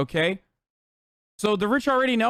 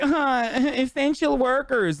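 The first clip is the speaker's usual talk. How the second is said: slow, higher, laughing mock praise of essential workers; mock cheer; 5 semitones higher, slower than usual. Streamer mocking the nightly cheers for essential workers, sarcastic. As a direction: drawl it out with a sneering laugh.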